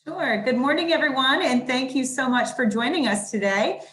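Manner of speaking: muffled behind a mask; talking through a mask; through a face mask. Real, not acted. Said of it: "I hope you can hear me through the mask".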